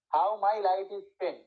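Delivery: very slow, each stress marked; stressed verse reading. Shown as a demonstration. Teacher slowly reads a Milton line to students, marking stress. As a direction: read the line slowly, hitting every stressed syllable. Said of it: "when টা unimportant".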